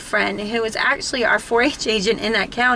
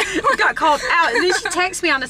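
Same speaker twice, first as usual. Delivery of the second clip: high-pitched words breaking into laughter; gleeful, laughing admission; real laughing; 7 semitones higher than usual. Real, not acted. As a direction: crack up while saying it. Echoes it, laughing.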